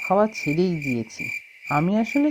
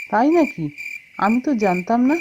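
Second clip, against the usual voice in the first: mild surprise; 4 semitones higher than usual. Acted. Learns house is for sale.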